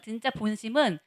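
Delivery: ordinary talk, nothing marked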